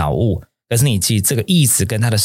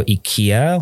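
American pronunciation. Shown as a demonstration. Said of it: "如果你今天想要美国人一点".

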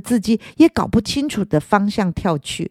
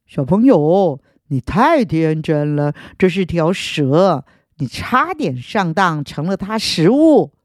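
gurgling owl voice; 3 semitones lower than usual. Acted. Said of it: "猫头鹰咕噜咕噜地说".

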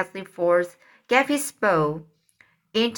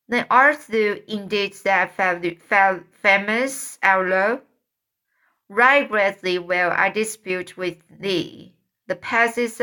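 stagey fake archaic declaiming. Joe plays Guy, archaic duel.

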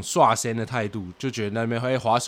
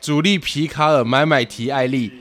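slow full name. Shown as a demonstration. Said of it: "这是他的全名".

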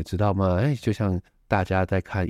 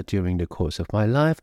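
"during the course of my life" set off by pauses, tail lifted; pause around aside. Shown as a demonstration. Teacher showing students an inserted phrase, set off by pauses. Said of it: "你语气稍作一下停顿就好了".

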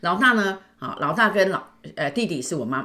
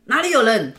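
mock annoyed mother; 6 semitones higher, 7 dB louder than usual. Mother snapping at child.

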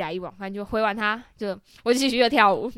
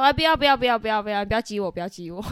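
rapid repeated refusal, half-laughing; playful protest. Retold or imitated. Clubgoer begging a man not to dare her, playful protest. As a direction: fend off a dare, giggling at the end.

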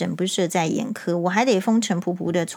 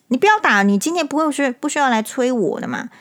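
raised, louder indignant protest; indignant outburst; 5 semitones higher, 3 dB louder than usual. Real, not acted. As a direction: snap it out at the abusive husband. Venting anger at the abuser. (冲着家暴男激动地大声抗议)

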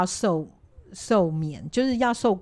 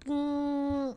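long, higher, soft hum; door-sliding hum; 5 semitones higher, 7 dB quieter than usual. Retold or imitated. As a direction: imitate a door gliding open by itself. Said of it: "就发现那个门".

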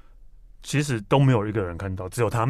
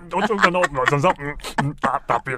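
trying not to laugh; 6 semitones higher, 4 dB louder than usual. Real, not acted. Laughing while retelling courtroom story.

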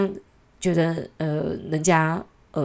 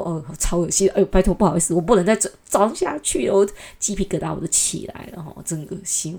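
disgusted. Real, not acted.

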